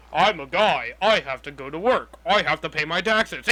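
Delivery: lightly voiced caveman; imitating a caveman playing modern man. Mimicking a video mocking modern people, mild caveman voice. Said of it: "acting like a caveman".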